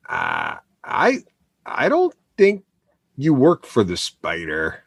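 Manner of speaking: halting, slow doubt, dropping low at the end; sceptical challenge. Acted. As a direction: voice a wary character calling a bluff. Character doubts the player's claim.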